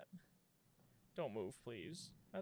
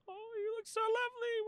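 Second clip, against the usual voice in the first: mock flattery; 5 dB louder than usual. Real, not acted. Overly sweet flattery to corpse.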